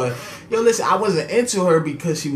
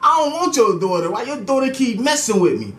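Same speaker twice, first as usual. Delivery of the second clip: high, pleading complaint with a laugh; exasperated plea; 7 semitones higher than usual. Retold or imitated. To her brother, a high exasperated plea. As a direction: beg him to rein her in. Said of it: "I'm like".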